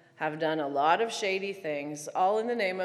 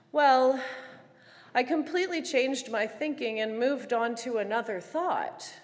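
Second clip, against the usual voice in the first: lightly imitated friend, slightly raised pitch; in her usual fashion; 4 semitones higher than usual. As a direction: gently mimic a friend switching topics. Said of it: "she replies in her usual fashion".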